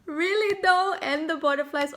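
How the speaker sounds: high, loud delighted squeal; giddy disbelief. Real, not acted. Reacting to the butterfly cards, high loud squeal. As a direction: shriek it out, thrilled. Overwhelmed by the card message.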